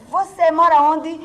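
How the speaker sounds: loud, high, drawn-out mock demand; imitated angry professor. Professor scolding pupil who got stuck, imitated angry demand. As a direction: stretch the question into a scolding. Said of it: "coisa ruim pela brabeza".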